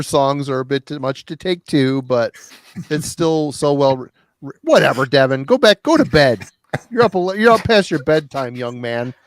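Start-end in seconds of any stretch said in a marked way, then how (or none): 5.1-9.1 stern scolding. Real, not acted. Parent sending child to bed.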